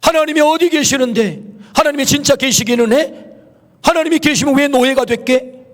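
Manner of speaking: high-pitched imitation of jeering sceptics; mocking. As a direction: taunt a believer with scornful questions. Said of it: "그렇게 조롱하는 거잖아요".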